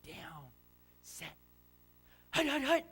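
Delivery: put-on small kid calling the snap, hut shouted high; a five-year-old barking the count, last huts loud and high; little boy voice. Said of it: "and his little five-year-old voice".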